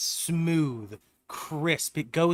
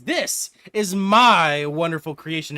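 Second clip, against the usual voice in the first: proud inventor; 7 dB louder, slower than usual. Acted. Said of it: "and he says".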